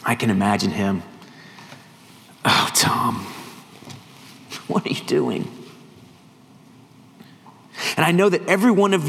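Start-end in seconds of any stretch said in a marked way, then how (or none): 2.4-5.5 hushed, half-whispered disappointment; acted soft chiding; gentle reproach. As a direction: sigh it out like a let-down friend. Imagines his Savior gently reproaching him.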